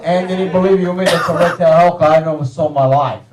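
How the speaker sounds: put-on Italian-accented solemn insistence; Italian father's accent. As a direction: assure your son firmly, in an Italian accent. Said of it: "most fucked up Italian accent".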